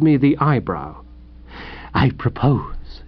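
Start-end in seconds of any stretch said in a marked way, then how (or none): 1.9-3.0 slow, measured announcement; icy dignity. A narrator's reading. Host to intruder about the room, slow and icy. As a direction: draw it out with cold formality.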